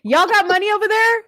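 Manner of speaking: high, laughing try at Southern slang; laughing attempt. Shown as a demonstration. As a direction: giggle through your own clumsy slang attempt. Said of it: "I know, I say".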